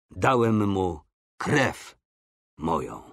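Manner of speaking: slow, unadorned reply with pauses, sinking low; simple sincerity. A narrator's reading. Coretti answering the onlookers, slow and simple. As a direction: state it simply, leaving space before the end. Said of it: "z prostotą odrzekł".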